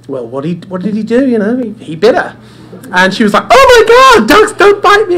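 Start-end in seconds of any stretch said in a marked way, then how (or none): 3.5-5.2 very high, loud hammed-up drunk shriek; drunk woman shocked. Bitten drunk woman shrieks at the dog owner, very high and loud. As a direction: shriek it in tipsy disbelief. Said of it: "she was obviously worse for wear".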